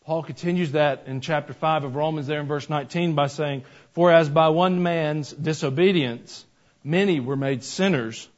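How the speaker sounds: scripture reading. Acted. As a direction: read the verses with weight. Reads scripture aloud.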